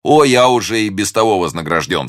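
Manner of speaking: high, joyful outburst; rapturous young gallant; ardent cry. A narrator's reading. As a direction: exclaim with a lover's delight. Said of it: "вскричал Д'Артаньян".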